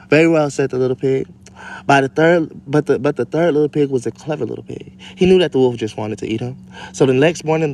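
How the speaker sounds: lightly performed storybook reading; story reading. Acted. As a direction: read the fairy tale out to the kids. Reads story aloud to kids.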